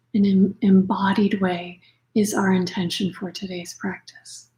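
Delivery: unhurried meditation voice with long pauses; guided meditation. Acted. Yoga nidra teacher settling listeners into practice, calm guided meditation. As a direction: gently guide them inward, leaving space for breath.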